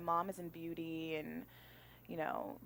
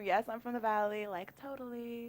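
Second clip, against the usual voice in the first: put-on valley girl; 5 semitones higher than usual. Shown as a demonstration. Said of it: "sometimes my Valley girl comes out".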